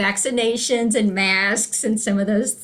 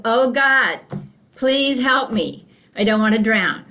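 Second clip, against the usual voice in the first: light, louder prayer for rescue; mock plea; 4 dB louder than usual. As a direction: plead to God as a joke character. Flooded man praying in joke.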